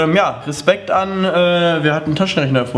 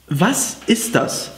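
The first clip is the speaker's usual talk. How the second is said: slow puzzled question; much slower than usual. Real, not acted. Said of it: "Ehrlich, was ist das?".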